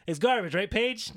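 high, loud needling question; teasing Paige. Retold or imitated. CM Punk baiting Paige, high and loud. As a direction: bait her with a grin. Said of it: "then he says".

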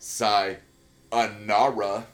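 slow drawn-out sayonara; mock Malkovich line; Malkovich quote. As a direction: stretch Sayonara out slowly. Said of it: "John Malkovich's performance".

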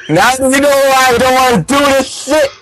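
laughing, fed-up yell; exasperated outburst. Real, not acted. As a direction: blurt it out through the giggles.

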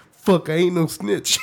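laughing through the words; giggling defiance. Retold or imitated. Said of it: "I'm like".

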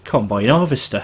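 "Combine harvester" with an Australian twang; Australian accent. Shown as a demonstration. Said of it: "in, like, an Australian accent".

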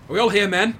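calling out. Acted. Officer calling roll.

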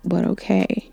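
hushed, half-whispered "Want? But okay."; quiet inner reaction, puzzled; to herself. Retold or imitated. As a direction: mutter it under your breath. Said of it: "that's what I'm saying to myself".

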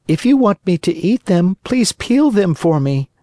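put-on high, fussy puppet boy; a spoiled boy demanding; Pinocchio voice.

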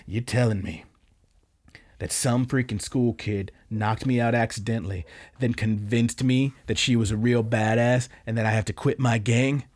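low, contained voice of a gangster in disbelief; restrained mock anger. Gangster confronts the girl who fooled him, restrained mock anger. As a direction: lean in close, lightly acted low menace.

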